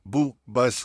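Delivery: बू cut off short, one dammah only; बू, a single short beat; short clipped boo. Shown as a demonstration. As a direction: say बू and stop at once. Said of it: "सिर्फ एक दम्मा".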